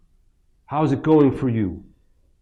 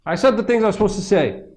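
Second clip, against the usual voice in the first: louder, higher smug retelling; mocking a zealot's story, louder; mock zealous preacher; 5 semitones higher, 4 dB louder than usual. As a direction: parody a self-satisfied preacher.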